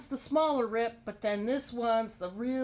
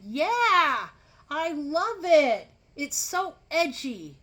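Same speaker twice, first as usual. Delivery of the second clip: excited man; 5 semitones higher, 5 dB louder, slower than usual. Retold or imitated. Man gushing about the shirt.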